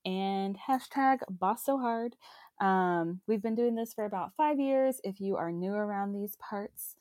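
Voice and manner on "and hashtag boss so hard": slow cowboy twang; cowboy drawl. Real, not acted. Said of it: "don't know why I sound like a cowboy".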